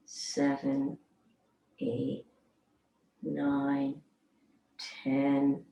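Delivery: quiet, slow count with long gaps; soft counting. Real, not acted. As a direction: count softly, letting the breath out. Counting slowly through the exhale.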